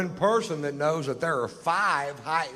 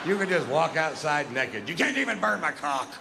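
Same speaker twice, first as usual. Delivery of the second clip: put-on light Scottish accent, higher pitched; 4 semitones higher than usual. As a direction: put on a quick Scottish accent for "You can't even burn my cock". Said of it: "why the Scottish guy said that".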